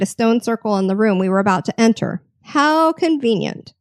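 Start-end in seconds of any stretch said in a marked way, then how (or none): 2.4-3.7 sarcastic. Real, not acted. Sarcastic aside.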